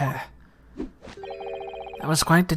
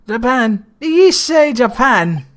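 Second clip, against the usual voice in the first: higher, louder incredulous question; acted astonishment; 7 semitones higher, 8 dB louder than usual. Governor reacts to visitor from Japan, acted astonishment. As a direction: jump up in pitch, acting startled. Governor's startled reply to the lawyer.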